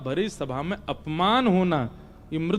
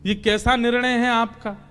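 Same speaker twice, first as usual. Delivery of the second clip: higher-pitched acted complaint; exasperated; 4 semitones higher than usual. Confused Arjun protesting God's contradictory orders, exasperated. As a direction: reel off the grievances in frustration.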